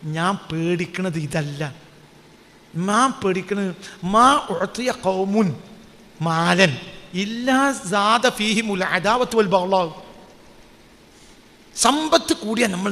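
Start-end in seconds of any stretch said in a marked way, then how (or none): 0.0-9.9 slow, soft and lower, weighty; Umar's grave reply. Retold or imitated. Preacher voicing Umar's fearful reply, slow and hushed. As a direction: voice the caliph's fearful answer slowly and softly. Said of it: "അപ്പോൾ പറയും".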